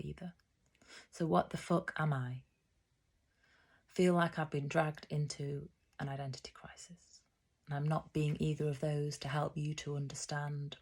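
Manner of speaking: firm starts to lines that tail off; poem recital. Acted. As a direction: own poem read out in measured phrases. Reads own poem aloud.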